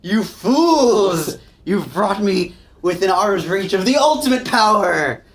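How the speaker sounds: loud, high gloating villain; booming villain monologue. Acted. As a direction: proclaim it like a triumphant demon.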